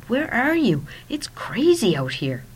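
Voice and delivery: high, urgent breathless question; hurried, keyed-up phone voice. A narrator's reading. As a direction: call out, breathless, over a crowd. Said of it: "I said breathlessly".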